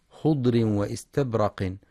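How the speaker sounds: خضر واستبرق without tanween, marked wrong; faulty خضر واستبرق, no un ending; wrong reading. Shown as a demonstration. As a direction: show the mistake خضر واستبرق. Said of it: "فلا يقرأ".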